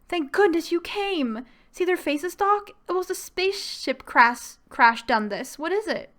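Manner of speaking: high-pitched, hammed-up country mother; a clumsy put-on rural accent; bad rural accent. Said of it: "That was a horrible accent".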